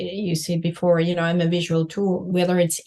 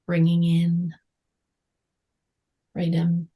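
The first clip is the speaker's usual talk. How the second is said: guided meditation. Acted. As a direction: guide them gently inward.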